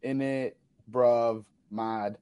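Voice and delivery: mock British slang. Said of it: "Just do the stereotypical YouTube".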